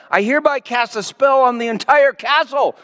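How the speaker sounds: a lightly voiced grand declaration; declaring. A narrator's reading. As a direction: proclaim the spell over the castle. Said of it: "the enchantress declared".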